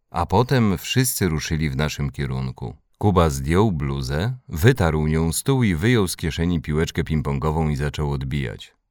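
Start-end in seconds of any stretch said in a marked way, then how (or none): none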